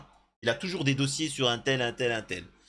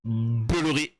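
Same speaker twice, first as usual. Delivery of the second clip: imitation du mot lancé; 4 dB louder, slower than usual. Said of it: "parce qu'il a dit".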